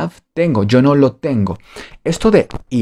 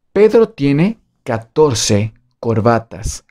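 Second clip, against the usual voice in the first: slow prompt; slower than usual. Shown as a demonstration. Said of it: "Cómo se dice".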